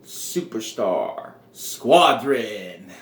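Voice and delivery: drawn-out, straight-faced announcement; deadpan group introduction, each word spaced out. Retold or imitated. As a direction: announce the name slowly, completely straight-faced. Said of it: "he says this with a straight face".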